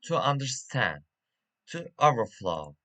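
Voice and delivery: "understand" and "overflow" leaning on STAND and FLOW; "to understand, to overflow" stressed on the second part. Shown as a demonstration. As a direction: put the weight on the end of "understand" and "overflow". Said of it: "stress is on the second part".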